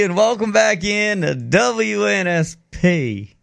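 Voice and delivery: slow, lightly drawled station welcome; Bill Clinton impression. Radio host welcoming listeners back, mild Clinton-style drawl. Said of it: "What does that sound like you just did?".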